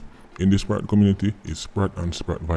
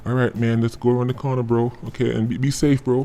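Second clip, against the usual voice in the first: friendly tour guide; 4 semitones higher than usual. Retold or imitated. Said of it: "he turn tour guide".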